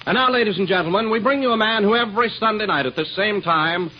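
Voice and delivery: brisk showman build-up to the star; announcer introduction. Acted. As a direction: introduce the headliner like a radio announcer.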